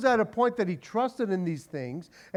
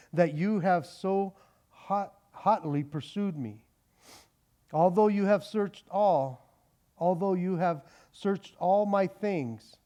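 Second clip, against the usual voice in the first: scripture reading. Acted. Preacher reading Genesis to the congregation, measured. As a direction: read the text deliberately.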